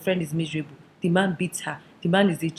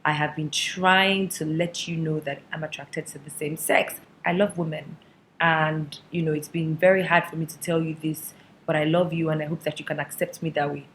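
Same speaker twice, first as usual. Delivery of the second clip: earnest confession; 3 semitones lower than usual. Acted. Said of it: "They sat their mothers down and said".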